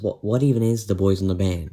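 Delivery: dismissive question. Acted. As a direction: ask it like an unimpressed heckler. Acted heckler asks, narrator then answers.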